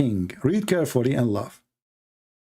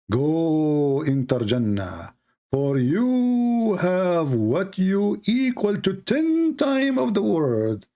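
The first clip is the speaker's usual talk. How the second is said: slow, grand, higher mock-divine promise; mock solemn promise; 4 semitones higher, much slower than usual. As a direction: proclaim it with hammed-up grandeur.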